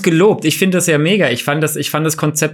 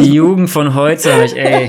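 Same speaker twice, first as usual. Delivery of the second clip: put-on louder grumpy old man grumbling; 6 dB louder than usual. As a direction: complain like a cranky old man. Repeats the complaint louder.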